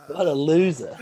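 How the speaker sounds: high, jeering Geordie-free teammate voice mocking him. Teammates roasting him over jersey.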